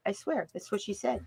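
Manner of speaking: normal talking voice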